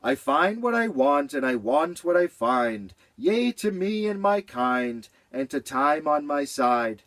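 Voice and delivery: a bright, happy little rhyme; cheerful. Acted. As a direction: chirp it out gladly.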